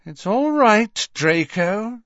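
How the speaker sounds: high, controlled calming; soothing mother. A narrator's reading. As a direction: rein in a son in a high woman's voice. Mother restrains her angry son.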